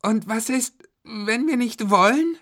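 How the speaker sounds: put-on high child's voice; Florian asking defiantly. A narrator's reading. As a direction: ask back as a cheeky kid. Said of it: "fragte Florian".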